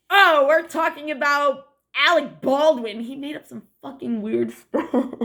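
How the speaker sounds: high, loud, drawn-out mock exclamation; loud retold cover-up. Retelling how they covered up his slip, loud and laughing. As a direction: cover up loudly, breaking into a laugh. Acting out their drunken cover story.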